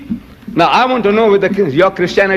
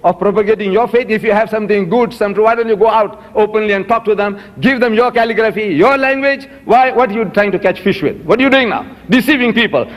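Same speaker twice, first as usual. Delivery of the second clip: higher-pitched, insistent retold reproach; pressing rhetorical questions, pitched up; retold challenge; 4 semitones higher than usual. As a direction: confront the missionary with pointed questions. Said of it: "You see, you're protesting. I said".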